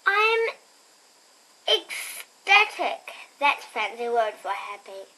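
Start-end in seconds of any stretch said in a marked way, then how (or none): 0.1-3.1 excited. A narrator's reading. Child reads Nancy's excited line.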